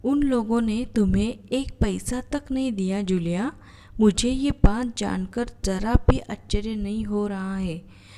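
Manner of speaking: loud, agitated, angry master; furious master scolding Julia, voice shaking; trembling with rage. Shown as a demonstration. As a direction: shake with rage as you accuse. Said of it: "क्रोध के कारण कांपते उत्तेजित स्वर में".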